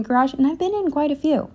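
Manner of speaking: breathless, panting between words; out of breath. Real, not acted. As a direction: speak winded from the walk. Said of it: "out of breath as always".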